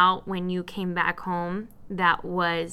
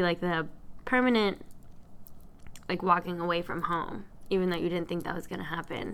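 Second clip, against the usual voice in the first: crying; 3 semitones lower, 6 dB quieter than usual. Real, not acted. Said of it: "Sorry for the crying".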